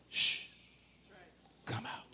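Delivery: very soft hushed command; quiet hush. Acted. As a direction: shush the spirit out gently. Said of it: "Jesus mostly only said".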